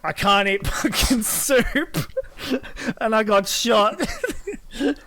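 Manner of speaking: mocking, laughing. Mocking friend's highlights.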